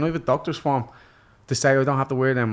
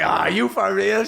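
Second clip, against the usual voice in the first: imitated partner, slow and higher; incredulous; 4 semitones higher, much slower than usual. Missus to her partner leaving bed, incredulous. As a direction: draw it out in exasperated disbelief. Missus reacts in disbelief, retold.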